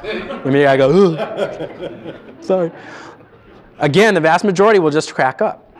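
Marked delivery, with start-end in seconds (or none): 1.2-2.1 1 goofy grunt. Shown as a demonstration. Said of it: "you gotta be a doofus".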